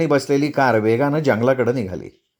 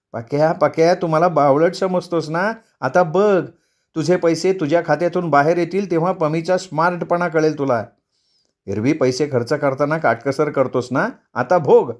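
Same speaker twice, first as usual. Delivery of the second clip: slightly raised, taunting voice; gloating wife; 2 semitones higher than usual. Acted. Wife imagines getting back at husband's account, gloating. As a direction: relish the revenge in mock address.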